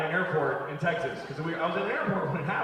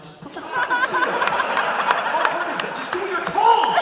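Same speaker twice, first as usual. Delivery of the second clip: high, loud exasperated yelling; furious shout; 7 dB louder than usual. Retold or imitated. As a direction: blow up at the selfish passenger. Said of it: "I'm like".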